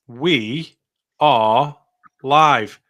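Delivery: loud announcer opening; shouting. Real, not acted. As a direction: call it out big.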